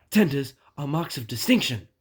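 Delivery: a touch of jealous grumbling; complaining. Acted. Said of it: "he complained".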